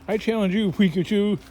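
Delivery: high, loud trainer's call; hammed-up anime battle cry; mock anime challenge. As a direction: throw down a playful cartoon challenge.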